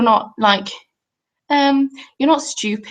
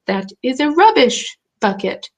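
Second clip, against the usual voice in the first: slow, spelled-out imitation of the plumber; retold slow explanation; 3 semitones higher than usual. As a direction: explain it slowly, as to a baffled foreigner. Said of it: "He was just like".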